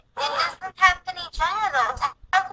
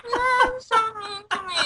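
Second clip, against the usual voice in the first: laugh-cry whine; half laugh, half whimper; 3 semitones higher than usual. Real, not acted. Laughing after being told off.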